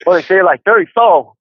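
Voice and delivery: rough attempt at an Australian accent. Shown as a demonstration. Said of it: "you know, how you say it".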